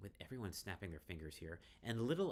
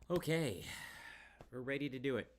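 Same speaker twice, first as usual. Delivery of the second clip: loud, eager and higher, stress on do; excited; 7 semitones higher, 7 dB louder than usual. Real, not acted. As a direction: pump yourself up.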